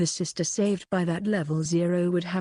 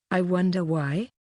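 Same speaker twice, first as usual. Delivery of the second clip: unhurried. A narrator's reading. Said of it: "she said in an extremely unhurried tone".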